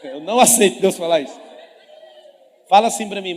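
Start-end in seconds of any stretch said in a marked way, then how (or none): 0.0-1.4 loud laughing mock protest; mock outraged refusal. Preacher mocks a fiancé refusing God's word, laughing. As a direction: ham up a stubborn fiancé. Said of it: "Ele fez assim".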